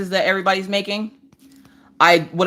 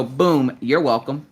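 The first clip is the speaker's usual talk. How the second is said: smug sign-off; 4 semitones lower, slower than usual. Pretend. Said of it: "you have to go".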